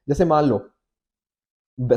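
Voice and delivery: ordinary delivery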